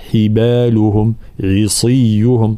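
عصيهم with the saad heavy despite its kasra; slow حبالهم and عصيهم, saad kept full; صاد مكسورة مفخمة. Shown as a demonstration. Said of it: "صاد مكسورة ولكن تبقى مفخمة ومطبقة".

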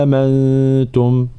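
slow آمنتم, second hamza eased; آمنتم بتسهيل الثانية; softened second hamza. Shown as a demonstration. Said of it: "هذه من الاستثناءات".

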